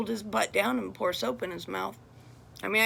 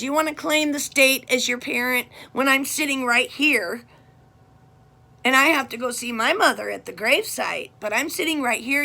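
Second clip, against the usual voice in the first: retold scolding; 5 dB louder than usual. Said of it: "I just told my daughter".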